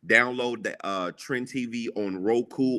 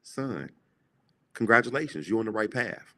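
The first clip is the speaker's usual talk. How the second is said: God's voice. Retold or imitated. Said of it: "God said".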